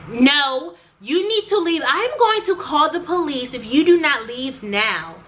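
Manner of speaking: imitating the receptionist telling her to leave or face the police; mimicking the receptionist. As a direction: play the snippy receptionist ordering her out. Receptionist voiced threatening police.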